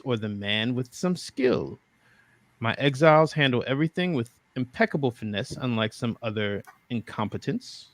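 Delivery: a hint of a bored French aristocrat; regency aristocrat. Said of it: "he says".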